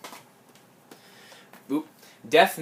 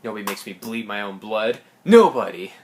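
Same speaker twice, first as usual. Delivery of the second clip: movie quote; 2 semitones lower, 4 dB louder than usual. Retold or imitated.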